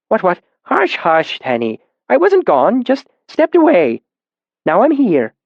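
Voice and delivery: put-on calm the boy down, patient; soothing old man. A narrator's reading. Old caretaker soothing the tied boy Tenny, patient hush.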